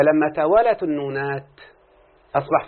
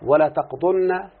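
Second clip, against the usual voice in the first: slow demo; 2 semitones higher, much slower than usual. Shown as a demonstration. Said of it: "لما قال مثلًا".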